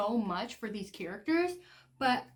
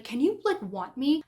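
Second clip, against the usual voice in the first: pleading, pitched up high and louder; frustrated husband; 4 semitones higher, 6 dB louder than usual. Retold or imitated. Graham pleading with Quinn during intercourse, frustrated high plea. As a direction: act out the frustrated husband begging. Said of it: "and he's like".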